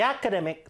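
"The" read with a long ee before "academic"; THE as "thee". Shown as a demonstration. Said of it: "너가 아니라 the로 읽어야겠죠". (모음 앞 "The"를 '디'로 발음)

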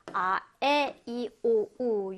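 아, 에, 이, 오, 우 as separate, drawn-out vowels; demonstrating vowel sounds. Shown as a demonstration. Teacher showing students which sounds are vowels, demonstrating 아, 에, 이, 오, 우 one by one. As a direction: sound out each vowel alone: 아, 에, 이, 오, 우. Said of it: "요 발음을 우리가 모음 발음이다".

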